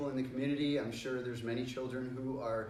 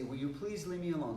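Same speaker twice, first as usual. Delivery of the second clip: polite, unforced asking; nice request. Shown as a demonstration. First response to someone bothering us, said nicely. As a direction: ask nicely, with no pressure. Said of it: "We wanna be nice to them".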